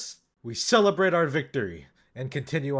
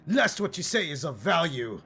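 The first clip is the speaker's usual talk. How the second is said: high, haughty snap at the oracle; unhinged command; 4 semitones higher than usual. Acted. Paladin snapping at the oracle, mock haughty. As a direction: lord it over her, lightly unhinged. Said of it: "go completely unhinged".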